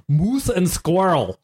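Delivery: slow, cartoon Russian spy accent. Shown as a demonstration. Player showing a Russian warm-up line from Bullwinkle, slow Russian accent. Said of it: "I did a Russian voice".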